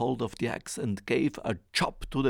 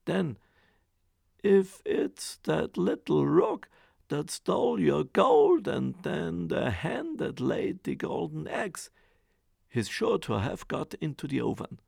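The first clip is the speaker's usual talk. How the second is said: ogre's wife; 3 semitones higher, 5 dB louder than usual. Acted. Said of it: "said the ogre's wife".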